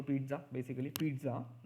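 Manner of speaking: पिझ्झा said slowly, with a clear t; slow पिझ्झा, peetza; पिझ्झा with the t sound; pronunciation demo. Shown as a demonstration. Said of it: "टी है इधर".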